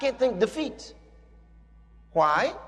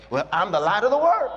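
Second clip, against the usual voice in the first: bold declaration. Shown as a demonstration. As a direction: say it with confidence. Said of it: "Be bold".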